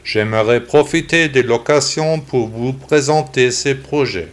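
synthetic text-to-speech computer voice. Real, not acted. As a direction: read like a computer voice. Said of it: "j'ai décidé d'enregistrer le podcast avec une voix d'ordinateur".

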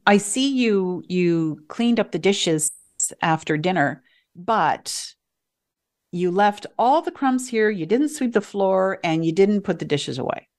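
faultfinding, pointing out what was missed; a touch of scolding a child about chores; negative criticism. Shown as a demonstration. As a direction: list the failures like a complaint. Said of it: "But the emphasis is different".

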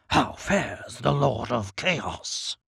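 low, slow, cunning Djinn voice; deep cunning Djinn. Acted. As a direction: purr it like a sly genie. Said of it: "The Djinn's voice is deep, cunning".

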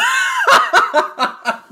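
big burst of laughter; loud laugh. Real, not acted.

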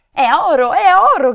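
loud, high cry of greedy discovery; shouting. A narrator's reading. Brigands spotting the golden carriage, shouting. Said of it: "gridarono avanzando di corsa".

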